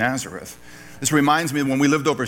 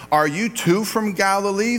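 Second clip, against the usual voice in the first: condescending; 4 semitones higher than usual. Retold or imitated. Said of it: "kind of a pejorative, kind of a condescending".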